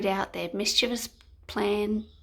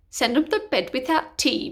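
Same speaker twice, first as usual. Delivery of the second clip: bellowing king; 2 semitones higher, 4 dB louder than usual. Acted. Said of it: "bellowed the king".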